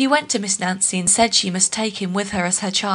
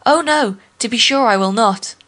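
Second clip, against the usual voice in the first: false reassurance; 2 semitones higher, 3 dB louder than usual. Acted. Anansi lies to the lion.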